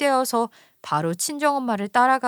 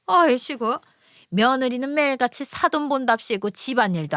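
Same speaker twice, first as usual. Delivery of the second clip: lightly voiced mother-in-law, sharp and reproachful; mother-in-law scolding. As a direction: nag the in-law with scorn. 시어머니가 사돈을 몰아세움. (사돈을 나무라는 시어머니, 가볍게 흉내 낸 역정)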